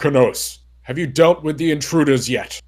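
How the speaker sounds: low, loud commanding boss voice; deep booming voice. Acted. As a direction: boom it out like a giant. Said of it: "a really deep, booming voice".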